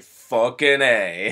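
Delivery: slow, laid-back action-hero delivery; slow and unbothered, like a tough guy; cool hero line. Retold or imitated. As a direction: drag it out with cool swagger. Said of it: "Dolph Lundgren's just like".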